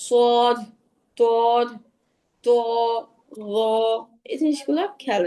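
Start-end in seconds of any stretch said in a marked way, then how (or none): 0.1-3.5 সদ and তদ with no w glide; heavy, rounded "sawd", "tawd"; one long rounded vowel on each letter name; single rounded vowel. Shown as a demonstration. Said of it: "এভাবে কেউ বলবেন না".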